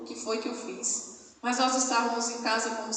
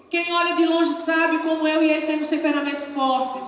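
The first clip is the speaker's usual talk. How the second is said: fervent preaching; 7 semitones higher, 8 dB louder than usual. Acted. Pastor preaches to the brothers, fervent and loud. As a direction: preach it out to the congregation.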